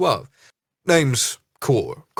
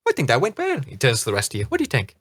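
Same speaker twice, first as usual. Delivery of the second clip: captain voice; faster than usual. Acted. Captain asking the players.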